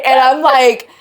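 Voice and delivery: normal talking voice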